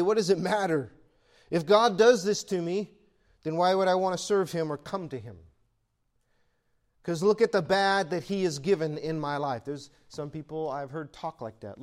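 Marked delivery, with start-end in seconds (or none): 0.0-9.6 bitter giving up. Retold or imitated. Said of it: "throw up your hands and say".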